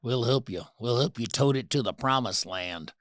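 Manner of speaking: a hint of the Sling Blade character offering help; Sling Blade impression. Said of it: "Remember Sling Blade?".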